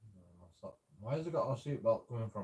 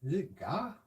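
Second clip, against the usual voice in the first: baffled shout; 6 semitones higher, 4 dB louder than usual. Retold or imitated. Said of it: "I'm like".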